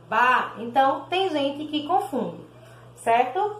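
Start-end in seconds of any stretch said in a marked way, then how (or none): 0.1-0.5 ba with a voiced B; B sound. Shown as a demonstration. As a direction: show the B in ba clearly. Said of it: "o som de bi".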